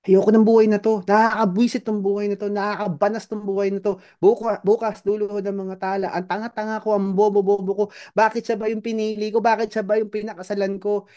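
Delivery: high, exasperated self-insults; self-berating rant. Retold or imitated. A person insulting themselves over their marriage, high exasperated. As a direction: vent disgust at your own life. Person cursing own life.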